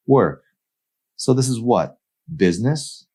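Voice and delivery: mild hurt indignation; offended. Acted. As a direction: throw the word back at him. Amy offended.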